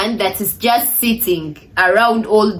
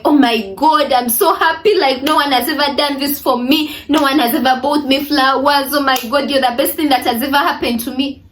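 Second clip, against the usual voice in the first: mock gushing girlfriend, higher, rushing the end; overly excited; 4 semitones higher than usual. To her boyfriend on Valentine's Day, mock overexcited gushing. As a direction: play a girl swooning over flowers, a bit hammed-up. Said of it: "you're overly excited".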